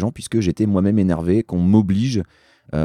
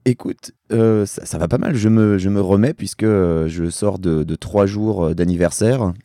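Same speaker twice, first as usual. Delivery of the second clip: rough, worn-out voice after singing all night; hoarse from three nights of karaoke. Real, not acted. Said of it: "t'as ta voix des lendemains de karaoké".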